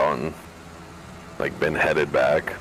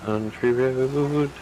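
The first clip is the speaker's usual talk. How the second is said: put-on grand old ballroom announcer; 4 semitones higher, slower than usual. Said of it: "slapping that voice on".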